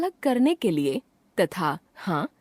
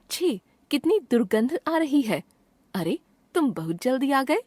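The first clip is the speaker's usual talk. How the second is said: higher-pitched textbook disgust, then surprise; mild exclamations; 5 semitones higher than usual. Shown as a demonstration. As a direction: read out as lightly acted exclamations. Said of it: "हर्ष, शोक आदि भावों को प्रकट". (हल्के विस्मयादिबोधक लहजे में)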